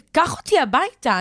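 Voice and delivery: "קח אותי הביתה" גבוה ונואש; מתחננת שייקח אותה הביתה; תחינה מבוהלת. Retold or imitated. Panicked demand to the driver. (מבקשת מהנהג בבהלה: קח אותי הביתה)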